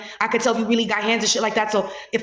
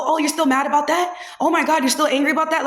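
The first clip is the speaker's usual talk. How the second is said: mock incredulity; 5 semitones higher than usual. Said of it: "people like to go".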